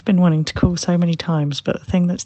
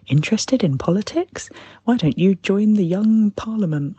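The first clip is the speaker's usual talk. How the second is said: lightly put-on letter voice, pitched up; mildly mocking, higher-pitched read; mock official reply; 5 semitones higher than usual. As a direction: imitate a form letter's eager invitation. Retelling a politician's official reply letter.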